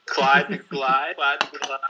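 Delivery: choppy glitching connection audio; breaking up like a bad connection; robotic broken audio. Real, not acted. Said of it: "You still sound like a robot".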